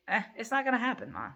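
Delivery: fast, brushing-off mock of a grown son; dismissive son. Mother imitating her son waving off her channel, dismissive. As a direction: toss it off like it's nothing. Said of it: "his tone is very dismissive".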